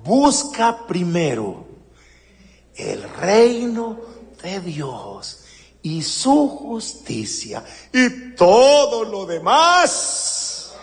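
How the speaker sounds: slow, deliberate quote of Jesus; solemn scripture quote. Retold or imitated. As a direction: weigh each word, slowly. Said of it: "Cómo dijo Jesús".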